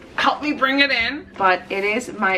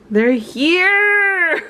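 laughing through tears; 10 semitones higher, 8 dB louder than usual. Real, not acted. Author copies finally arrived.

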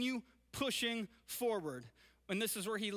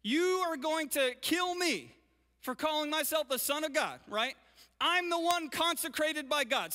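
louder, higher, earnest protest; Jesus pleading; 4 semitones higher, 4 dB louder than usual. Retold or imitated. Preacher voicing Jesus confronting the armed Pharisees, earnest and raised. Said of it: "And Jesus will pause".

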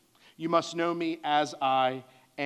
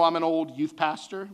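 put-on "old" leaned on a little, slightly louder; stress on old; 2 semitones higher, 4 dB louder than usual. Shown as a demonstration. Pastor joking about his age, light stress on "old". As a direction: give "old" a light wry push. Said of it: "emphasize the word old".

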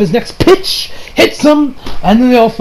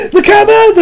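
mock anime yell; 13 semitones higher, 3 dB louder, faster than usual. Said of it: "and I was like".

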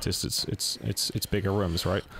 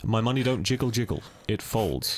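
put-on British accent. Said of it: "say things in a British accent".

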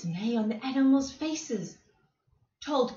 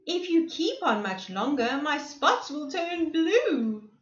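pleading cry; 5 semitones higher than usual. Acted. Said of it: "yelled Cardwell".

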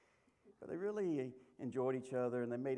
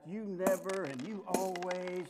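accusing couple; 5 semitones higher, 4 dB louder, slower than usual. Retold or imitated. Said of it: "they begin to say things like".

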